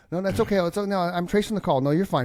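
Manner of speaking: mock police officer. Posing as a detective to a scam caller, pushy cop voice. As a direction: talk over him like a sergeant tracing a call. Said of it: "I'm investigating a homicide".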